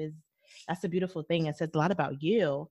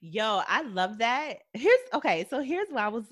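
smiling voice; 5 semitones higher than usual. Real, not acted. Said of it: "I'm smiling so hard right now".

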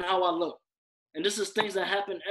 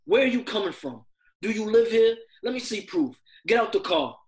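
a louder, sharp demanding cop voice; hostile cop interrogation; 2 semitones higher, 6 dB louder than usual. Retold or imitated. Cop stopping a Black man, acting out a louder demanding interrogation. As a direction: bark the questions like a suspicious officer. Quoting police stopping him.

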